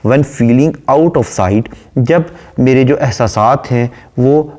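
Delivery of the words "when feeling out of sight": slow, measured poem reading; unhurried English verse reading; poem recitation. Shown as a demonstration. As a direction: recite the line slowly, savouring it. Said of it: "पोएटस कहती है".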